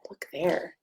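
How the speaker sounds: hushed look there; whisper. Acted. Reader whispering to children about the worm. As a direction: whisper it like a secret.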